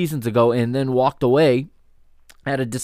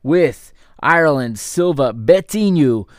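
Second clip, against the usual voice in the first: 2 upbeat basketball play-by-play call; 3 call the action as it happens, lifting on big plays; 1 live play-by-play. Acted. 4 commentator calling the second half for listeners, lively play-by-play.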